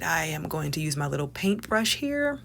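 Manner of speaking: soft unvoiced crafting whisper; hushed crafting aside; whispered narration. Real, not acted. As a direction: whisper the next step. Quiet aside during craft.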